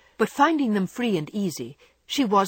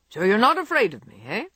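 put-on louder, abrupt gruff old gentleman; gruffer old man; 3 semitones higher, 5 dB louder than usual. A narrator's reading. Old gentleman abruptly challenges Jo, louder gruff. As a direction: bark it out like a stern old man testing her. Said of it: "The gruff voice was gruffer than ever".

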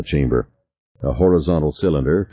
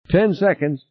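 much higher, tense voice; panicky countdown; 11 semitones higher than usual. A narrator's reading. Passenger counts the last seconds before the blast, high and panicky.

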